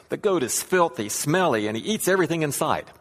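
distraught complaint. Acted. Man tells rabbi of filthy goat, acted distraught. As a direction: complain like a man who's had enough. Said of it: "looking more distraught than ever".

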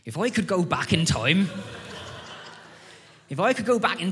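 old lady in a hammed-up countryside accent. Old lady answering the pastor's question, countryside accent. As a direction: raise the pitch into a rustic old churchgoer's accent. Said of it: "and she says".

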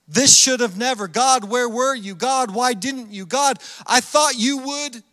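acted, insistent complaint to God; anguished questioning. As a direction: plead as a let-down believer. Acts a hurt believer questioning God.

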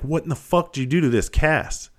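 doctor's angry yell. Retold or imitated. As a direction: bark it like a stunned officer seeing the wrecked cast. Doctor yelling about ruined cast.

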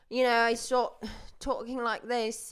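put-on British accent. Shown as a demonstration. Podcaster showing how she hides being upset, British accent. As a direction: slip into a mock British accent. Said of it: "talking in a British accent".

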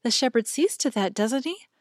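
lightly voiced girl seeking reassurance; timid little girl. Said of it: "said the other timidly".

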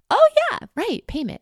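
sudden high oh yeah, then trailing off; as if it only just occurred to you; oh right realization. Retold or imitated. Remembering her own forgotten payment, jumping high in surprise. Retells forgetting about payment.

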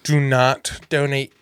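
slow, each word stressed: do not donate; emphatic warning. Real, not acted. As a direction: spell out do not donate, slowly. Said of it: "People at home".

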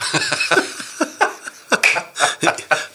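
bright burst of real laughter. Real, not acted. Guest laughing at his own small breakfast. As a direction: laugh it off, a little sheepish.

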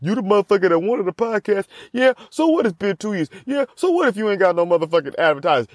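fast, lightly pushed inner voice; lightly voiced inner coach; self-hype. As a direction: hype yourself up. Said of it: "I'm like".

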